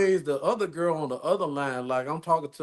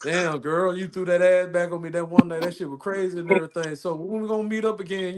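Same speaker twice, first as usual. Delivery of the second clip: voicemail lover; 4 semitones higher than usual. Acted. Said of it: "through the voicemail".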